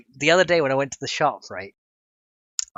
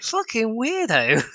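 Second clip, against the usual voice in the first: scornful mutter; 8 semitones higher, much slower than usual. Retold or imitated. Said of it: "I was like".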